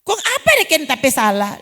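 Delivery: mock whining complaint to the pastor; whiny complaint. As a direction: moan like a church member who feels cheated. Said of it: "dia bukan bilang begini".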